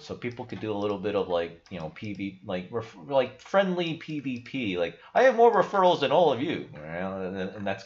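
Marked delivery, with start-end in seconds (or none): 5.1-6.7 high, loud playground bragging; mock boast. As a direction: crow it like a smug kid topping the leaderboard. Boasting on a referral leaderboard.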